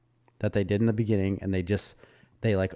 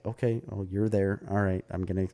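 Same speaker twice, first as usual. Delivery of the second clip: uninterested Swedes; 4 dB quieter than usual. Retold or imitated. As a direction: imitate a quiet, noncommittal acknowledgment in passing. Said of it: "they don't interact with you".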